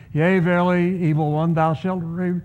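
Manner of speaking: hammed-up King James rebuke; pompous old-fashioned exorcist tone; mock biblical prophet. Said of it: "you don't have to be spiritual about it".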